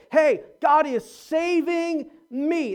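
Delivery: God leaned on, slow and falling; slow, stressing God in saving me. Shown as a demonstration. Preacher models the grateful phrasing, stressing God. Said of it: "So when we say".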